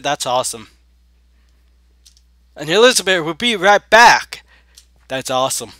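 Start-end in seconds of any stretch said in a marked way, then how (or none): 2.6-4.4 high, loud proclamation; theatrical announcement. Pretend. Player announcing Elizabeth's return, hammed-up shout. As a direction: proclaim it to the whole room.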